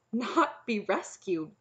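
puzzled. A narrator's reading. Knight echoing the princess's refusal, puzzled. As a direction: repeat it slowly as a baffled question. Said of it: "The knight's puzzled look deepened".

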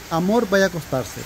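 lightly voiced loving wife pampering husband; imitating sweet wife. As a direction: coax him like a doting wife. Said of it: "que ella me dice".

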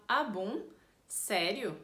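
questioning, surprised "Ah, bom?". Shown as a demonstration. Listener hears about a world trip, surprised. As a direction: react as if the news is unexpected. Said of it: "com essa entonação mostra a surpresa".

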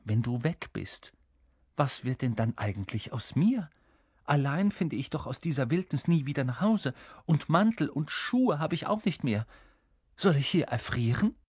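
mildly anxious king; fretting, building towards plaintive questions; worried. Acted. King afraid of being left in wilderness, worried. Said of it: "sagte er besorgt".

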